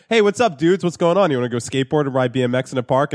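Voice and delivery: chirpy mock reality TV girl; valley girl voice. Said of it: "she'd be like".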